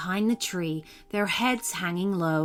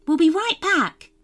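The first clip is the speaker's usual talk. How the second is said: put-on higher, girlish fairy voice; fairy Rebecca's voice; 10 semitones higher, 6 dB louder than usual. Rebecca the fairy admits the soup smells good, higher fairy voice. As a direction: lift it up into the little fairy.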